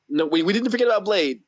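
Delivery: sick, hoarse and fading voice. Real, not acted. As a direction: talk through a hoarse sore throat. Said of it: "the excitement in your sick voice".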